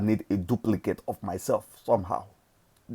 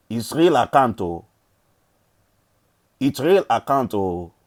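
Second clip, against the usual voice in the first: loud, excited repeat; 2 semitones higher, 4 dB louder than usual. Real, not acted. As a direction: shout it out proudly. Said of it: "see, it's real account".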